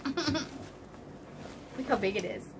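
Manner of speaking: soft, slow and amazed; awed hush. Real, not acted. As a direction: marvel quietly, slowly. Awed at the package size.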